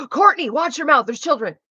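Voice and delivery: high, loud scolding of herself; mock self-scolding. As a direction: scold yourself like a shocked mother. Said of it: "be like".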